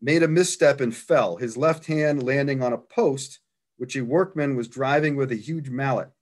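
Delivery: measured read-aloud of a written account, easing down at the close; reading a quoted report to an audience. Real, not acted. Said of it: "I'll just read the account".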